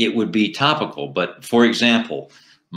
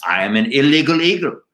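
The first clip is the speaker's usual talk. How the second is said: higher-pitched Latino eagle puppet voice; Latino accent; 5 semitones higher than usual. Acted. Eagle puppet taunts the president, higher-pitched Latino accent. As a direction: defy them in a lilting Latino accent. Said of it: "you have a Latino accent".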